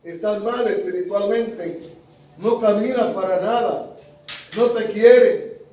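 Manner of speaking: retold shouting. The enemy shouting at a believer, retold shouting. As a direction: shout it at them in short, forceful jabs. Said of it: "y le grita".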